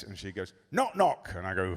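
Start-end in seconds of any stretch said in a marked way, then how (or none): 0.7-1.3 put-on high, chirpy little girl; child telling joke. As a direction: open a joke like an eager kid. Daughter starts another joke.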